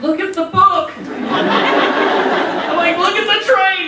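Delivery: put-on high, laughing baby talk to the three-month-old; baby talk to infant.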